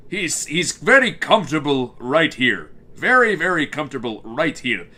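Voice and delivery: lightly voiced Grim demo; Grim's comfortable register. Shown as a demonstration. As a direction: settle into a hint of the character voice. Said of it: "he sits, like, right here".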